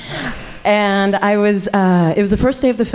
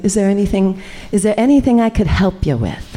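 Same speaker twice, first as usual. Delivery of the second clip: put-on Long Island accent; 3 semitones higher, faster than usual. Butch stranger offers the workshop teacher help, in a light Long Island accent. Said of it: "In her Long Island accent".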